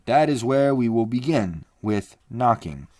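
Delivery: a resolute man declaring the plan; firm Leo. Acted. Leo Mathienne speaks.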